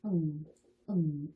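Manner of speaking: short isolated "응" ending in a nasal ng; "응" as a Korean final-ieung sound. Shown as a demonstration. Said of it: "이응 받침 소리가 난다라고".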